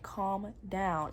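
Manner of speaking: composed, measured retelling at ordinary volume; calm. Retold or imitated. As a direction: say it evenly, without rising to the fight. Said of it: "I'm still calm".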